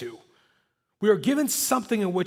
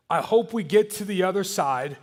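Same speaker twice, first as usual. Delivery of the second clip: unsure wishful tone, not a promise; hesitant hoping. Retold or imitated. Preacher mocking a doubtful hope, tentative. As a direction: say it like you only hope so. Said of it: "It's not like".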